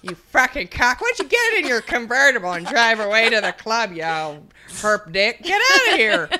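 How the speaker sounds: put-on high, loud cranky old woman; old lady voice. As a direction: snap at him like an irritated eighty-six-year-old. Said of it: "Put in an old lady voice".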